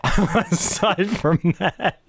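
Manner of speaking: slow, laughing echo. Real, not acted. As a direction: chuckle the words out slowly.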